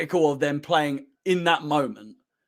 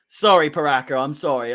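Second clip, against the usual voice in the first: apologetic; 4 semitones lower than usual. Real, not acted. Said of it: "I just get a little bit overexcited".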